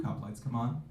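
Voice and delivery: ordinary talk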